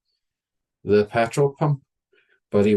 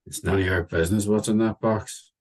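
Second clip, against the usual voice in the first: gruff. Retold or imitated. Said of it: "was his gruff response".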